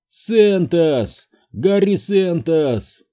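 high, slow, insistent calling of a name; a child's voice that is not his own, calling out; eerie high call; insistent possessed voice. A narrator's reading. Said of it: "настойчиво повторял чей-то голос".

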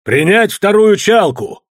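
slow, loud, high order; commanding through megaphone. A narrator's reading. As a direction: call it like a master through a loudhailer. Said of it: "В рупор голос его показался чужим и властным".

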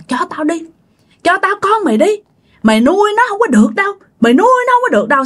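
a ghostly woman asking sweetly but menacing; high eerie female ghost voice; woman's voice. Retold or imitated. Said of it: "vừa nói vừa cười".

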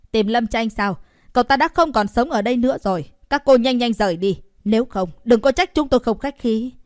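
loud, fast threatening voice; threatening neighbour. A narrator's reading. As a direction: chase the strangers off with a warning. Neighbour threatens them to leave.

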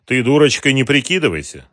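loud, grim, menacing advice; grim warning. A narrator's reading. Matvei threatening Mara, grim and loud. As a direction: warn her darkly not to play dumb. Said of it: "мрачно посоветовал Матвей".

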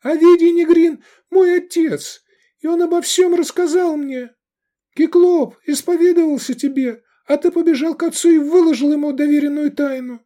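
very high, loud denunciation; shrill-pitched, impassioned girl's tirade; girl's accusing cry. A narrator's reading. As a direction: cry out the accusation before the crowd. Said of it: "крикнула девушка".

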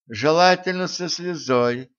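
high thin squeaky voice; thin high squeak. Acted. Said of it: "тонко вякнуло".

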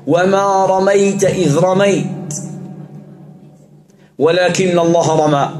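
slow, drawn-out chanted verse; slow ruqya recitation; Quran recitation. Acted. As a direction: intone each word slowly.

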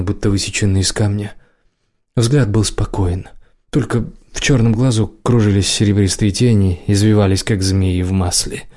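ordinary delivery

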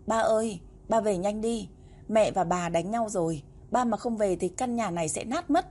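a hint of put-on crying, begging him home; mock sobbing plea. Little boy faking tears on the phone, begging father home. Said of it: "khóc nức nở kêu lên".

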